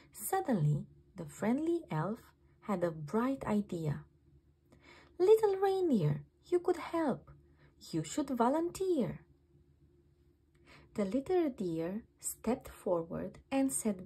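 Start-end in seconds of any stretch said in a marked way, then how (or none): 5.2-9.2 eager elf. A narrator's reading. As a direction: pitch the idea with excitement. Elf cheerfully urges the reindeer.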